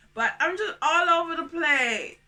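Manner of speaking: laughing through the words. Real, not acted. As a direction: break into laughter at the end.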